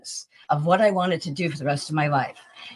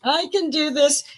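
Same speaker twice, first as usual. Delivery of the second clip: much higher, breathless disbelief; stunned yes; 10 semitones higher, slower than usual. Retold or imitated. Accepting Michael's tour offer, much higher in stunned excitement. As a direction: gasp out a yes you can't believe.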